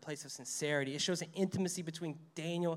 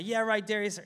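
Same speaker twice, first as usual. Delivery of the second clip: sarcastic retort; 5 semitones higher, 4 dB louder than usual. Retold or imitated. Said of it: "Daniel yelled back".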